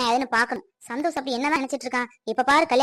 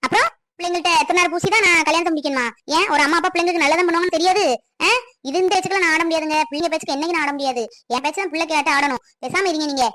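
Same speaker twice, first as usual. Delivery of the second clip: raised, higher-pitched indignant outburst; angry; 4 semitones higher than usual. Acted. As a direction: lay down the law to your husband, heated. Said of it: "கோவப்படாத". (கோபமாக எதிர்த்துப் பேசுவது)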